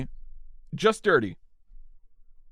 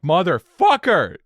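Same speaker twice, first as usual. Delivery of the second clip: louder, drawn-out retold curse; mock angry curse; 4 semitones higher, 5 dB louder than usual. Driver cursing the reckless BMW, mock furious. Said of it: "I'm so mad".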